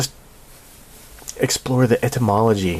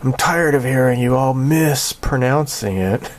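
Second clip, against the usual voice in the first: mock indignant critic; 5 semitones higher than usual. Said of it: "Gary Bass says".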